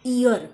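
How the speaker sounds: इयर said as "ee-yar". Shown as a demonstration. Teacher blending ई, अ and र for learners, इयर as "ee-yar". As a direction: glide from "ee" into a short "a" in इयर. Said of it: "असा उच्चार होतो".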